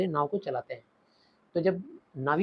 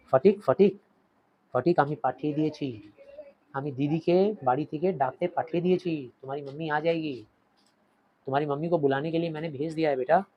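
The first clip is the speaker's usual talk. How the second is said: tender reassurance. Acted. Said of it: "माथा झुकाते हुए बोले".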